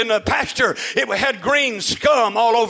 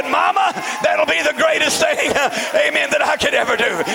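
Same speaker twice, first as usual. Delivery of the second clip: joyful reply; 4 semitones higher than usual. Retold or imitated. Joyful answer to mother's request.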